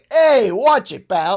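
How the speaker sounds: high, loud laughing "watch it, pal"; laughing mock warning. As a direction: pretend to be offended while laughing. Mock offended at mom joke.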